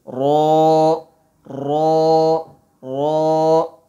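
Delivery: را said full and heavy, tongue behind the teeth. Shown as a demonstration. Teacher showing pupils, را said heavy. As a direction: fill the mouth on را. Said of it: "موٹا کر کے پڑھنا ہے".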